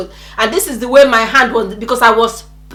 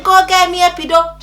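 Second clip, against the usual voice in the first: raised, demanding cry; insistent yell; 6 semitones higher, faster than usual. Retold or imitated. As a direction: re-enact a pained demand. Re-enacts repeated demand in labor.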